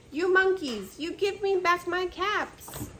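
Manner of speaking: loud scolding, demanding his caps back; angry peddler. Acted. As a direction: shout at the monkeys, fed up. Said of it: "This made the peddler angry".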